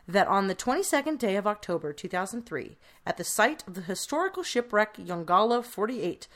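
formal legal reading voice; coroner voice. Shown as a demonstration. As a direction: read it like an official court charge. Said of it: "this is my coroner voice".

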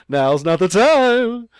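loud, high, drawn-out warning; hammed-up cry through amusement; mock urgent cry. Captain reacts to throat-cutting signal, laughing.

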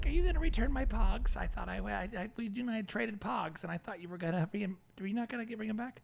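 put-on soft nerdy kid voice. Nerd persona continues.

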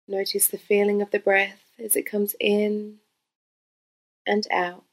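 guided meditation. Real, not acted. Yoga teacher leading listeners through breath awareness, calm guided meditation. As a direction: gently guide them into stillness, phrase by phrase.

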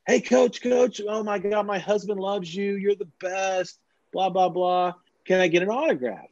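high, excited admirer voice; gushing fan. Acted. Another fan begging the coach for an autograph, gushing. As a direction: fawn over a celebrity in a put-on high voice. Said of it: "Someone else comes up to him".

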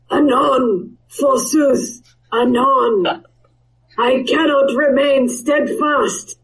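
archaic, grand wyvern speech. Acted. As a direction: speak like an old-world wyvern. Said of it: "Let me just get wyvern voice".

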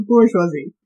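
"bourgeoisie" as boor-zhwah-zee, with the R; R put in. Shown as a demonstration. Correcting a friend's pronunciation, "bourgeoisie" with the R put in. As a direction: demonstrate "bourgeoisie" with a light R after the first vowel. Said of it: "You gotta get the R in there".

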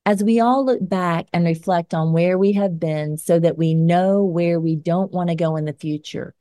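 firm, measured editorial read; scripted commentary read. Acted. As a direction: read it like an op-ed segment. Reads scripted closing commentary.

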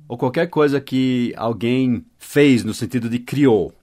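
normal talking voice

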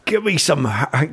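slow, breaking into laughter, a faked Scottish; attempted Scottish accent. Prompted by a friend to say haggis, in a faked Scottish accent. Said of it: "I'm not sounding Scottish".

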